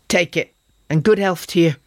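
bright, hearty market woman's send-off; a touch of cheerful warmth. A narrator's reading. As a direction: wish them good health with a grin. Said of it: "said the woman cheerfully".

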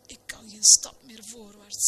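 an exhausted protest; weary. A narrator's reading. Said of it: "zei de dominee vermoeid".

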